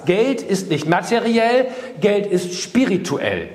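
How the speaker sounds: "Geld" hit high and slow, each word laid down deliberately; slow emphatic repeat. Shown as a demonstration. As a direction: repeat "Geld ist spirituell" slowly so it sinks in. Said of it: "Verinnerlicht mal diesen Satz".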